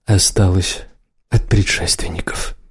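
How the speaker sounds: lightly voiced, flat and unmoved; level voice. A narrator's reading. Holland greets the chained Kel, coolly level. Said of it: "произнёс ровный голос".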